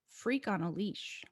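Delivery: slow, deliberate quiz-host read; slow quiz-master reading of a song title. Shown as a demonstration. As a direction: lay out the title slowly like a quiz clue. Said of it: "say some of them out loud".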